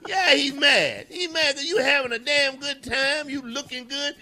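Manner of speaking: high-pitched, emphatic comic tirade; worked-up rant. Acted. Radio host ranting about the jealous husband, worked-up and high. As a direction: wound up, pitch riding high.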